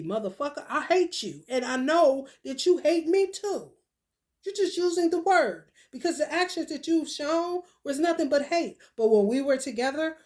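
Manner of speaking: angry rant at ex. Acted. Acted rant at ex.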